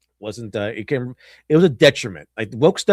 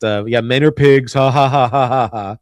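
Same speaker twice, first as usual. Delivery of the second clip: scoffing "men are pigs", then a louder fake ha-ha-ha; mocking laugh; 5 dB louder than usual. Circe laughing off the crew, mock cackle. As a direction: sneer at the men, laughing them off.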